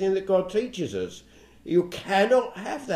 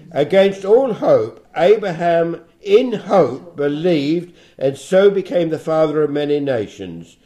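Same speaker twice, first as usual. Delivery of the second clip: scripture reading; 4 dB louder than usual. Acted. Bible teacher reads verses on Abraham's faith to listeners, solemn scripture reading. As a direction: read the verses out deliberately, weighting key words.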